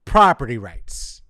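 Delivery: loud, falling at the end; loud verdict with a falling tune; final emphatic repeat. Real, not acted. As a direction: drop it heavily as the last word. Last repeat, falling, after long pause.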